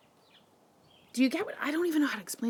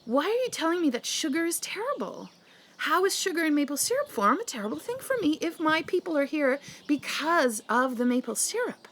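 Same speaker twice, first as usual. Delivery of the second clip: indignant rant; 6 semitones higher than usual. Real, not acted. Ranting at sugar critics.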